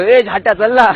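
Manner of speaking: high, very loud call-out; sudden loud yell. Retold or imitated. Retelling yelling at a friend in college, sudden shout. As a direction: holler to hurry a friend along. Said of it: "अचानक मी जोरात ओरडलो".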